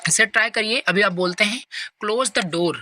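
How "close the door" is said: "door" drops down at the end like a command; falling tone. Shown as a demonstration. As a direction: say "close the door" and let the voice fall on "door". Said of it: "your voice goes down on the door". ("door" पर नीचे गिरता tone)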